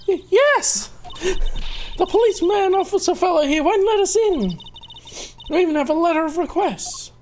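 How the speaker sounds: put-on a girl tripping over her words; flustered high girl. Girl answering the charmer, high and flustered.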